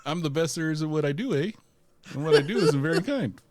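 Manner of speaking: apologetic cartoon Canadian; Wolverine. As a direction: boast in a polite Canadian accent. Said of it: "will this version of Wolverine be really Canadian".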